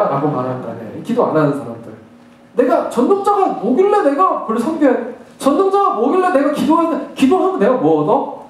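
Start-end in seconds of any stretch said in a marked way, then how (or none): 2.5-8.5 higher-pitched, scornful challenge; acted dismissive protest against God; mock defiance. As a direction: throw out indignant rhetorical questions as a scoffer. Acting out defiant non-praying people.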